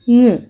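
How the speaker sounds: "ng" hummed as the end of king; "ng" as a bare ringing hum; isolated ng sound. Shown as a demonstration. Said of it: "king, zing".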